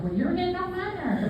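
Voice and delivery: snippy. Retold or imitated. Old snippy way of saying it.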